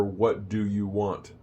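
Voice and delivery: "What do you want" slowly, with separate words; full form. Shown as a demonstration. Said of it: "That's short for".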